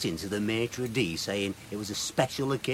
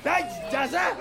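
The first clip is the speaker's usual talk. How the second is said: high, hammed-up pirate growl. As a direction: ham it up like a party pirate. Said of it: "Why are you talking like a pirate?".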